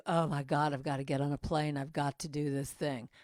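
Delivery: low, burdened grumble; weary obligation. Acted. Speaker mimicking her old burdened attitude to gigs, weary obligation. Acted reluctant burdened traveler.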